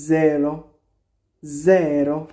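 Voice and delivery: জেরো said carefully with a long first vowel; careful pronunciation. Shown as a demonstration. Teacher warns pronunciation matters, careful model of জেরো. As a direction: model জেরো clearly, stretching the "ze". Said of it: "প্রনাউন্সিয়েশনগুলো আর কি".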